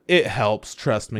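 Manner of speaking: lightly voiced low, understated reassurance; stoic hero. Hero pushes ring on party, quiet stoic assurance. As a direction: keep it low and matter-of-fact.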